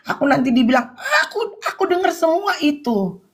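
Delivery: laughing through the words; retelling with a real laugh. Real, not acted. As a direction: let a laugh run through it. Laughing while retelling a quote.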